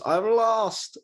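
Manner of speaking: a bad, lightly voiced Stitch impression; terrible Stitch. Imitating Stitch from Lilo and Stitch, badly voiced. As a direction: squeak it out like a poor Stitch copy. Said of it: "That's a terrible Stitch impression".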